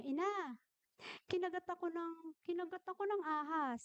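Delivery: a hint of a small boy's normal, unalarmed voice; little boy's voice. Bitten two-year-old tells his mother about the snake, normal child voice. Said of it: "ganun yung boses ng bata, normal lang".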